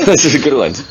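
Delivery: echoing it with a laugh. Real, not acted. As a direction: repeat it while laughing.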